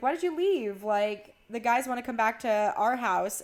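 high-pitched opening, lightly acted protest; retold sisterly complaint. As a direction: imitate a sister demanding an explanation.

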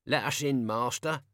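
pleading call from far above; pitiful echo from roof. Acted. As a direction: whine it down a chimney. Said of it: "a pitiful voice echoed down from the roof".

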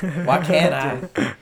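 slow, strained, voice nearly gone; hoarse lost voice. Real, not acted. Teasing his friends back with a lost voice, slow and strained. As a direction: croak it out with what voice is left. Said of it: "He lost his voice".

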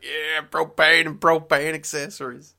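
loud, high, drawn-out catchphrase voice; slow, booming cartoon quote. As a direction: belt out the propane slogan slowly. Acted King of the Hill catchphrase.

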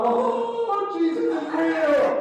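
a sudden high gasp of wonder, then slowed; overwhelmed convert realizing it's real; awed new believer. Acted. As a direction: let the truth of it hit you mid-sentence. Awestruck convert voiced in story.

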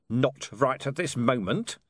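slow, grudging growl; curt refusal with a growl. Acted. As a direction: growl it out slowly, holding back. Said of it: "growled Vimes".

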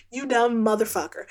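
laughing through a mock insult; half-laughing while calling him dumb. Real, not acted. Insulting the character in frustration.

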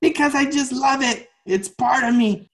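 very high mock-tearful plea; near tears. Dancer answers the teacher at the point of tears, mock-tearful. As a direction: imitate answering on the verge of crying. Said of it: "at the point of tears".

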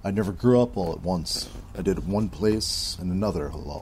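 low, grave gunslinger read; deep, weary bounty hunter. Shown as a demonstration. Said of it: "I'm gonna try to do this in the gunslinger's voice".

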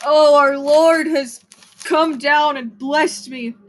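slow, solemn mock praise to the Lord; mock preacher. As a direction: ham up a holy thanksgiving, slowly. Mock-religious thanks after blessing.

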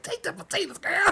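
high, loud mock cry of take it; hammed-up squealing yell; high mock shout. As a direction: yell it like a pushy friend shoving food. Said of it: "She's like".

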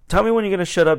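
loud, high cutting interruption; forceful retort. Retold or imitated. Worker cutting off a ranting customer, loud retold retort. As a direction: talk over a ranter firmly. Retelling himself cutting off rant.

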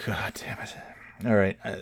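whispered curse. Real, not acted. Man whispering a curse at his glitching computer. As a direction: hiss it under your breath.

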